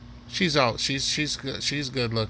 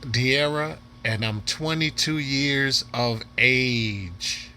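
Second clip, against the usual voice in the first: mock introduction; slower than usual. Mimicking the woman's introduction he replayed.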